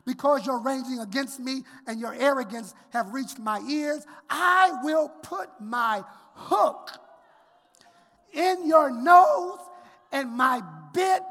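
full-force sermon shout; preached scripture. Acted. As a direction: thunder the threat.

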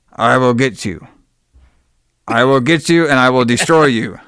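mock menacing villain threat, lightly voiced; hammed-up villain vow; cartoon villain. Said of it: "fucking eighties cartoon villain".

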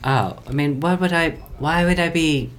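little dog voice, played straight; yappy chihuahua voice. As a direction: talk like a tiny dog. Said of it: "this is the voice of a chihuahua".

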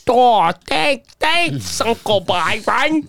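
put-on high, halting child's thanks; imitated kid. Kid thanks uncle for odd birthday gift, high child voice. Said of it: "I'd be like a kid".

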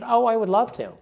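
high-pitched eager yes; delighted acceptance. Retold or imitated. Swimmer invited to speak at coaches seminar, delighted acceptance. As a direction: accept gladly with a high lilt.

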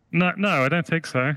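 small, high creature voice refusing; a tiny voice saying no from behind the door; little high-pitched voice. Acted. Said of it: "a little voice".

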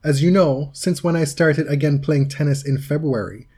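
mildly theatrical letter reading; dramatic reading. Acted. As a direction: read it out with measured, lightly dramatic emphasis. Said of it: "give you a dramatic reading".

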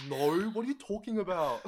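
animated Asian Australian "no"; Asian Australian accent. Acted. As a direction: act out an Asian Australian speaker protesting. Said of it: "so many people are like".

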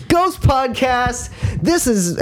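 a high, slow, hammed-up spooky announcer; spooky host. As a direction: drag it out like a cheesy ghost show. Mock spooky show intro.

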